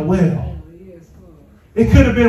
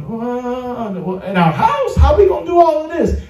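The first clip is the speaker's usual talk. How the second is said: incredulous; 5 semitones higher than usual. Retold or imitated. Recalls doubting starting a church.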